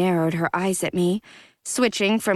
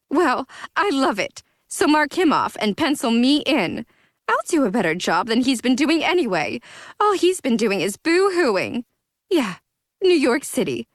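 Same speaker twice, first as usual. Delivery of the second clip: spewing anger; 6 semitones higher than usual. Acted. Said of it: "continued to spew anger".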